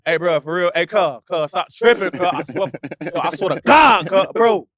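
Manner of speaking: 757 Virginia talk. Shown as a demonstration. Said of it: "I start talking like this".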